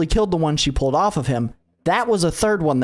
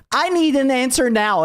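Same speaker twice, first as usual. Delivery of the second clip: demanding answer; 8 semitones higher than usual. Retold or imitated. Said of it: "is what I said".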